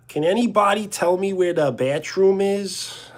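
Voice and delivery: high-pitched mock Long Island accent; Long Islander accent. Streamer asking for the bathroom in a Long Island accent. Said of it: "how do they talk?".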